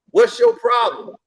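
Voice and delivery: high-pitched, slow challenge; acted-out confrontation, high and slow; retold confrontational demand. Retold confrontation, question said twice.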